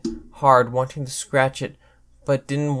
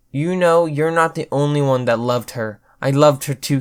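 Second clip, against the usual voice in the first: hurt outburst; 6 dB louder than usual. Acted. Sparkles hurt, still loud.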